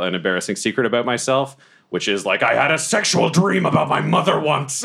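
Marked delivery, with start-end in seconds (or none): 2.4-4.8 high, anguished confession; hammed-up agonized cry; howl of agony. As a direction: howl out an embarrassing secret. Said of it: "do another howl of agony".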